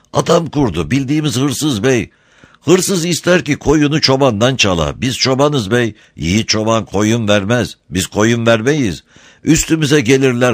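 a hint of a defiant herdsman; earnest, proud shepherd.

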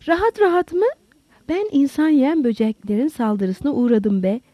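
understated narrated shout, pitched high; indignant shout. Acted. Lowell answers Holmes's accusation, indignantly raising his voice. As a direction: retort with indignation, voice jumping up. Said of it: "diye bağırdı Lowell".

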